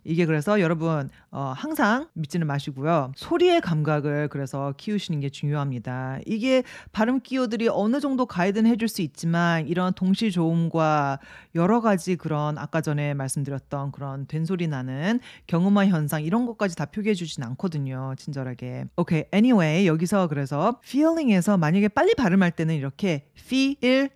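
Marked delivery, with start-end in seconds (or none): none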